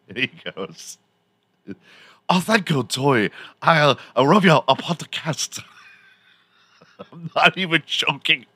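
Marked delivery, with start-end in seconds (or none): 2.3-5.6 much higher, mock computer voice; caricatured text-to-speech voice. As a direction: imitate the robotic voice reading Johnny's lines. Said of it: "most horribly racist caricature of an Asian person".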